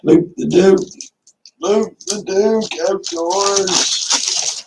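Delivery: high, drawn-out name call; hyped-up shout-out. Real, not acted. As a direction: announce the name loud and high, stretching it. Calls out a viewer's name.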